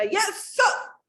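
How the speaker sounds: high, snappy military reply; saluting general. Acted. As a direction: respond like a soldier on duty. General answers summons. (फ़ौजी सेनापति का जवाब)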